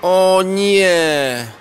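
dismayed cry. Acted. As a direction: let it burst out when the drops scatter. Candy spills on the floor. (okrzyk przerażenia, gdy draże się rozsypują)

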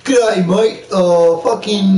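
badly faked, hammed-up Australian accent; attempted Australian accent. Trying an Australian accent for a friend, hammed-up Australian. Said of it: "can't even do an Australian accent".

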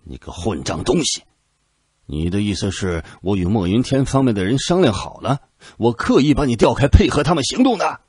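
rising to a high, loud furious accusation; raging. A narrator's reading. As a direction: build from insult to a shouted charge. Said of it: "暴跳如雷".

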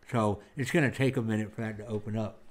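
talking around a cigar; cigar in mouth. Real, not acted. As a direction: lips gripping cigar. Seen 0: cigar clenched in mouth while speaking in frames 0.1 to 1.7.

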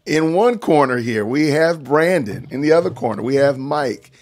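ringmaster. Acted. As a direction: announce the fighters like a boxing MC. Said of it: "working on my ring announcers, uh, shtick".

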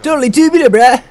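high-pitched, goofy exclamation; playful high catchphrase. Pretend. Player clowning with teammates, silly high voice.

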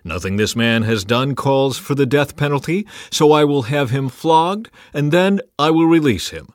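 announcing a verdict. A narrator's reading. Pilate addressing priests and people, announced verdict. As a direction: declare the ruling to all. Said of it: "he announced his verdict".

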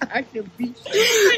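playful shout. Real, not acted. Playful fight after the fall.

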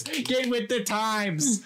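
drawn-out, slow. Pretend. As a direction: stretch each word slowly.

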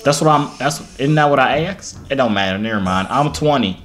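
a light put-on country accent while flirting. Flirting with a stranger on video chat, in a country accent. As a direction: lay on a lazy Southern country accent, smooth talker. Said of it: "country accent sucks".

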